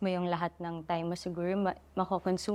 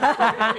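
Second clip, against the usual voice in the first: short laugh; 2 semitones higher, 9 dB louder than usual. Real, not acted. Laughs again before repeating.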